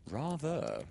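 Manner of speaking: lightly voiced warm boy; affectionate brotherly agreement; warm, boyish. A narrator's reading. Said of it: "said Laurie's warm, boyish voice".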